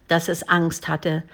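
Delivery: ordinary delivery, nothing marked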